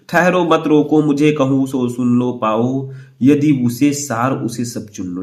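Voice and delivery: slow, measured verse reading; poem recitation. Acted. Teacher reads exam verse to students, measured recitation. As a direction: recite it line by line, drawing out the line ends.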